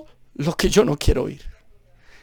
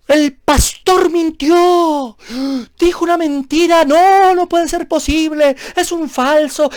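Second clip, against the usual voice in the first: higher, slow, shocked churchgoer gossip; higher gossiping congregant, scandalized; 6 semitones higher, slower than usual. Retold or imitated. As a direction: gasp at the lying pastor like a busybody. Voicing gossiping churchgoers about pastor.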